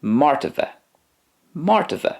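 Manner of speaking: "martywe" as MAR-ty-ve; careful Polish "martywe"; Polish word modelled. Shown as a demonstration. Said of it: "and in Polish".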